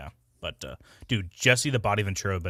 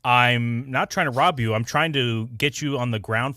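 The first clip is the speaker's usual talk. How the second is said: imitating the meme line; 4 dB louder than usual. Repeats the meme line for chat.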